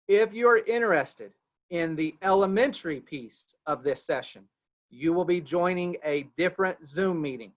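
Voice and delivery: emphatic, carefully phrased announcement; measured delivery so nobody misses it; slow and deliberate. Real, not acted. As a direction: lay out the instructions piece by piece. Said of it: "I'm gonna say this very slowly".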